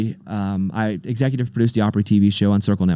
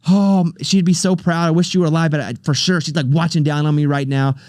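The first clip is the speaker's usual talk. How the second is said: tearful; 4 semitones higher than usual. Retold or imitated. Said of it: "I'm starting to think".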